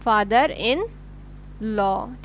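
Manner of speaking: father in ... law with a pause before law; slow teacher drill, law held apart; slow, spaced for students. Shown as a demonstration. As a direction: say father in, hold, then law. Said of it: "तो हम बोलेंगे उनको".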